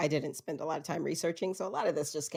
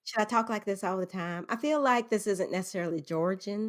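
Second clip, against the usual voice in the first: put-on light Southern accent; 3 semitones higher than usual. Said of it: "You sound like the lady from".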